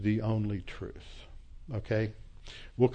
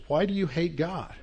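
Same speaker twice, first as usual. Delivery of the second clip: higher, insistent question pressing the professor; a retold challenge, pitched up and insistent; 6 semitones higher than usual. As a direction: push him hard on why he hates God. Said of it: "he says to press".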